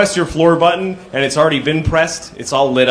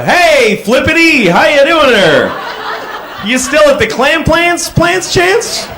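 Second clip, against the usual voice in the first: high, slow, loony cheerful greeting; crazy greeting; 9 semitones higher, slower than usual. Retold or imitated. Greeting someone whose name he forgot, a high loony welcome. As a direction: greet him like a total nut. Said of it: "Just go".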